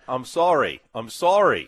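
put-on a mild Australian accent on the apology; lightly voiced Australian apology; a hint of an Australian accent saying sorry. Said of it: "He did it with his Australian accent".

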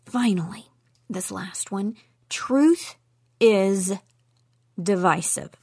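hushed whisper building suspense. Acted. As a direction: whisper it, keep them waiting. Dramatic build to point seven.

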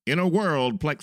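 dramatic trailer announcer; movie trailer voice. Shown as a demonstration. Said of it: "sounds like the movie trailer guy".

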